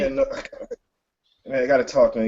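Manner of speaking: high, choked-up voice of a friend who has been crying; a tearful friend calling on the phone, choked up; choked up Phil. Acted. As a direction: sound like you've been crying, pitch up. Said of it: "He does seem to have been crying".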